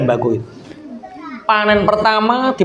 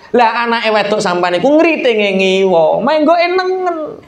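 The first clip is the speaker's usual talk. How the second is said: mocking explanation; 3 semitones higher than usual.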